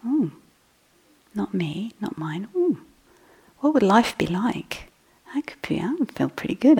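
whispered inner note. Retold or imitated. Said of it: "you can make it a note".

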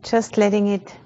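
calm, measured meditation guide with long pauses; unhurried, even-toned meditation instruction; guided meditation. Real, not acted. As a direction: guide a group gently into awareness, leaving space between phrases.

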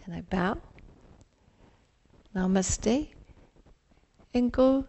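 guided meditation. Acted. Leads a mindful partner exercise.

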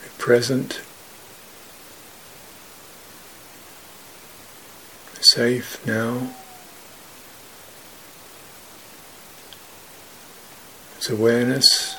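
sparse, measured phrases with long silences between; guided meditation. Real, not acted. Teacher guiding meditators to feel openness in the body, calm meditative voice. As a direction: calmly guide them, leaving room after each phrase.

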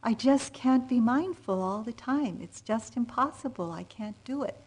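a hint of despairing student; retold upset. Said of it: "really upset, overwhelmed".

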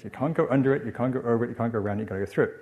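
quick Geordie run-through of a rhyme; Geordie accent. Retold or imitated. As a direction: rattle off the rhyme lightly in Geordie. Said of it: "you'd say it in a Geordie accent".

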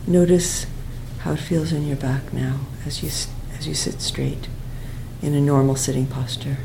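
calm guidance, softening toward the end, long pauses; guided meditation. Real, not acted. Teacher asking students to feel the breath in the back, quiet meditation voice.

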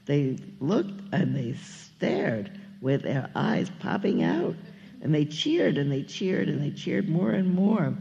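lively, lilting read-aloud of rhyming verse; story narration. A narrator's reading. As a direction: read it like a picture book to children. Reads a children's story aloud.

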